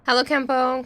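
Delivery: bright high hello; cheery greeting. Real, not acted. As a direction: sing out the greeting.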